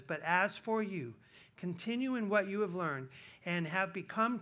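loud, measured preaching of scripture; scripture reading. Acted. Pastor reading scripture to his church, proclaiming. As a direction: proclaim the verse to the congregation.

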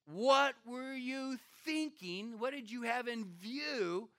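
high, slow exasperated demand; upset Abimelech. Retold or imitated. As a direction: stretch out "What" in disbelief. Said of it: "he's upset".

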